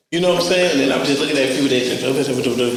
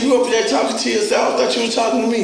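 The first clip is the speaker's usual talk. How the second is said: mock disbelief; 6 semitones higher, faster than usual. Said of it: "I said".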